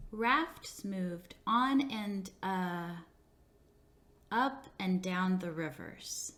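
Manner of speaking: slow, stumbling read with a filler uh; halting student reading. Shown as a demonstration. Teacher imitating a student who stumbles, slowly and haltingly. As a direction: read it like a child who slips, stalls, then fixes it. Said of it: "The student reads".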